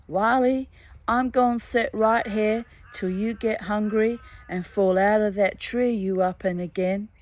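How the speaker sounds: a lightly voiced, mocking swamp conjurer; taunting hairy man. Hairy man taunting Wiley up in the tree, mildly mocking. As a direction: tease him like a cat with a mouse.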